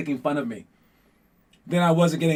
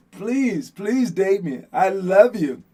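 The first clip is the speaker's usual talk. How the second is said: desperate begging; 3 semitones higher, much slower than usual. Retold or imitated. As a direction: beg like a lovesick kid. Begging a crush for a date.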